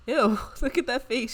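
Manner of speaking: giggling through the words; laughing. Real, not acted. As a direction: laugh as you say it. Laughs at Sim's face.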